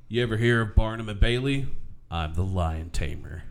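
lightly voiced cop, dropping low at the end; a hint of a low-voiced movie cop; cop impression. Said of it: "go down to the cop".

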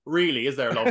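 a light Cork lilt with a laugh; Statham's character answering the detective, lightly Irish; mock Irish accent. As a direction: tease it in a hint of Cork. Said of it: "speaking of accents".

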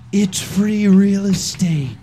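sultry narrator. Acted. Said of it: "I'm whispering all of them".

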